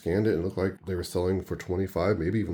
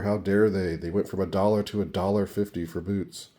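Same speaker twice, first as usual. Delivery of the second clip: sarcastic. Pretend. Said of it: "Of course, that was sarcasm".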